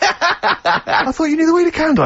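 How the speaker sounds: high-pitched retold protest, laughter breaking in; acted incredulous passenger, pitched right up; mock exasperation. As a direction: squeak it in mock disbelief through a laugh. Acting his exasperation at cabbie.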